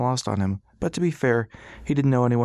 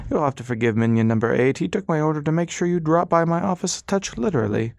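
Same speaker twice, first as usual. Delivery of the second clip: sympathetic; 6 semitones higher than usual. A narrator's reading. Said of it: "Doctor O said sympathetically".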